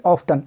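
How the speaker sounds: ऑफ्टन with the t clearly sounded; t pronounced. Shown as a demonstration. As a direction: say ऑफ्टन as off-ten, t spoken. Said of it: "क्या पढ़ेंगे?".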